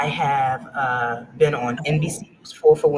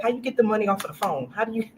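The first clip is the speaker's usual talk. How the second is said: laughing confusion; 6 semitones higher, faster than usual. Retold or imitated. Retold confused call to kids.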